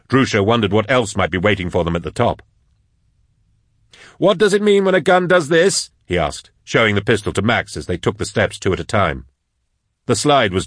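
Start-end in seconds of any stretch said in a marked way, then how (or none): 4.2-5.9 high-pitched, pressing question; pitched well up, in alarm; urgent question. A narrator's reading. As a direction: ask it urgently mid-flight. Urgent question in mid-chase.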